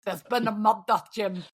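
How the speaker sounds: imitated Scottish detective line; Scottish accent. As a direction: echo it in put-on Scots. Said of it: "That's from Taggart".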